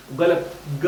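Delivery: ordinary delivery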